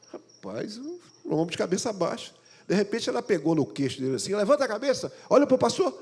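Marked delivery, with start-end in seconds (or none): 4.4-6.0 high, loud command; fierce wife bossing husband; bossy wife order. Retold or imitated. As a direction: order him to lift his head.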